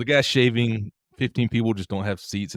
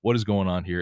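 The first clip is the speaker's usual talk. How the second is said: alarmed refusal; 2 semitones higher, 4 dB louder than usual. Retold or imitated. Wife balking at airplane seat.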